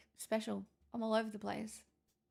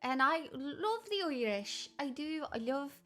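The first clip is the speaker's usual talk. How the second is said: put-on Irish accent; 2 semitones higher than usual. Streamer defends love of the Irish, playful Irish accent. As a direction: lay the Irish on as you explain yourself. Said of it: "why I do the accent".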